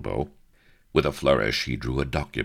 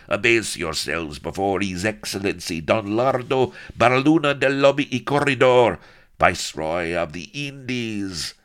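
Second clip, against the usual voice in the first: high, loud herald's announcement; pompous proclamation; 8 semitones higher, 7 dB louder than usual. A narrator's reading. Chamberlain proclaiming the Viceroy to the prisoners, loud and high. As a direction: announce the title with rising pomp.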